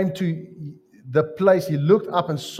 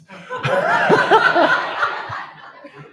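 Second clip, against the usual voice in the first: big high laugh; 4 dB louder than usual. Real, not acted. Laughs at his own quip.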